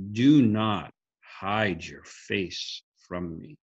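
slow, drawn-out plea read from the psalm; slow, solemn reading of the psalm line; slow scripture reading. Shown as a demonstration. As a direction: linger on each word of the verse. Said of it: "it says".

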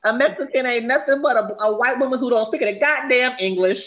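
a hint of a brash auntie ranting; playful outrageous mom impression; imitating Jennifer Lewis. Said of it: "she was like".

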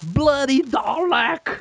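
drawn-out robotic shout; Dalek voice. Pretend. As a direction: stretch it like a Dalek. Joking Dalek impression.

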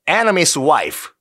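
English with a Korean accent, very slow; showy Korean-accented English; homemade English pronunciation. Shown as a demonstration. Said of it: "원어민 발음이 아니라 제 발음이었어요".

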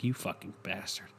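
understated sulky dog voice; dog's voice. Retold or imitated. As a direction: voice the suspicious dog muttering back. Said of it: "and he's like".

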